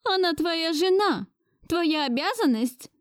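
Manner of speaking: put-on high-pitched scolding old lady; stern grandmother. A narrator's reading. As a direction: scold him like an imperious grandmother. Grandmother voiced higher. (властная бабушка отчитывает внука)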